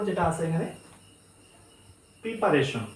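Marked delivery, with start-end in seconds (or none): 2.2-2.9 "প্রিপারেশন" starting with pree; "প্রিপারেশন" with an i in the first syllable; mistaken pronunciation. Shown as a demonstration. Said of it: "এটা আমরা ভুলভাবে বলি".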